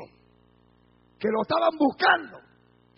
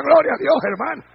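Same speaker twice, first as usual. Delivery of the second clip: very loud exhortation; rousing call; 2 semitones higher, 12 dB louder than usual. Real, not acted. Preacher prompting the congregation to praise, shouting.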